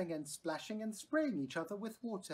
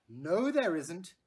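calling back; 7 dB louder, slower than usual. A narrator's reading. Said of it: "her mother called back".

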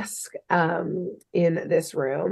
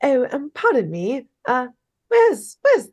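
awkward; 3 semitones higher than usual. Retold or imitated. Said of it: "Jerry awkwardly is like".

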